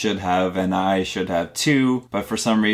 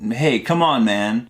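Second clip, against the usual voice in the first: retold yell; 3 semitones higher than usual. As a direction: call out in protest, without full force. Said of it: "he yells out".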